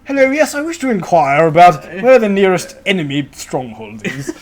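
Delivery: hammed-up prim inquirer; silly clown. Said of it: "So you'll be like".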